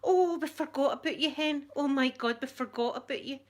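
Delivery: high-pitched horrified gasp of realisation; horrified hairdresser. Retold or imitated. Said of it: "with absolute horror on her face".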